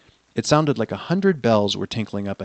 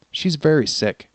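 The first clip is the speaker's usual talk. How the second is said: high worried princess; young princess pleading; cartoon princess; 6 semitones higher than usual. Princess character in story.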